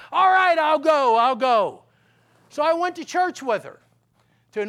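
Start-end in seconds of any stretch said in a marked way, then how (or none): 0.1-1.8 louder, worn-down surrender; exasperated giving in. Retold or imitated. Husband to nagging wife, loud fed-up surrender. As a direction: give in, fed up. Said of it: "after nagging for two years".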